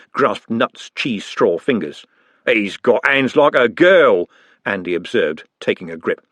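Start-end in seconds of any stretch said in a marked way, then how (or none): 2.5-4.3 slow, louder contemptuous drawl; a bully's slow scorn; sneering bully. Acted. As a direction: belittle him slowly. Andy sneering at Nutt.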